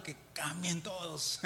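slow words breaking into a laugh. Real, not acted. Preacher laughing at his wish that everyone changes. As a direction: chuckle through it, slowly.

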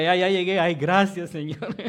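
loud, happy relief at the news; loud joyful mock relief; loud relieved cry. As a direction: call out thanks with relief. Retelling son arriving, relief.

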